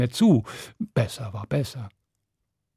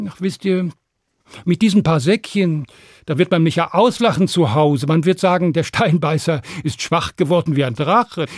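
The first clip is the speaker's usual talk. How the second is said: cheeky Stan; 3 semitones higher than usual. Acted. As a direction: play the offended strongman. Stan bluffs.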